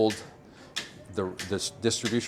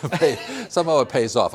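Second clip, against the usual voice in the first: said through a laugh, louder; 6 semitones higher, 8 dB louder than usual. Real, not acted. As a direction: chuckle the words out in disbelief. Laughing about greenhouse profits.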